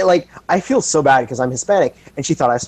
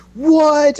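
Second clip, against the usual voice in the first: mock surprise; 13 semitones higher than usual. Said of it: "they're like".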